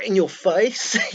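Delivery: very high, loud Cockney scream; screaming in your face. Retold or imitated. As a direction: scream it right in their face. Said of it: "proper screaming in your face".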